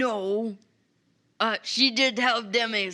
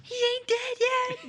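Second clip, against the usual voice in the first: mock indignation; 14 semitones higher than usual. Real, not acted. Player protesting the jokes.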